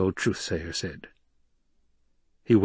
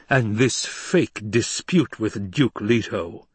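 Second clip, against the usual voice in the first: slow, insinuating purr; mock-admiring imperial purr; purring Emperor; 2 semitones higher, slower than usual. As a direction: draw out the accusation silkily. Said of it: "the Emperor purred".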